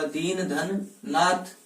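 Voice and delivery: दीन धन नाथ said very slowly, each part apart; slow dictation; slow split. Shown as a demonstration. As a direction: lay out दीन धन नाथ piece by piece. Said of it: "शुद्ध संधि विच्छेद क्या होगा?".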